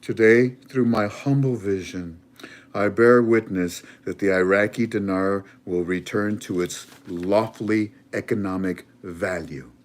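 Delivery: prime minister speech. Retold or imitated. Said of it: "He said".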